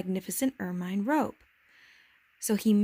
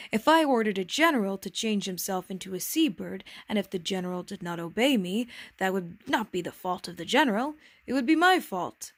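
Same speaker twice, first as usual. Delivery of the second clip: king voice. Acted. King gives his example.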